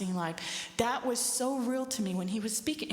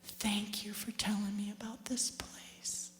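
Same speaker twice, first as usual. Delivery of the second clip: softer, slow whispered thanks; grateful whisper; 7 dB quieter than usual. Retold or imitated. Mother thanking her daughter in heaven, grateful whisper. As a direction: whisper your thanks tenderly. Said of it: "she puts her hand on my knee and she said".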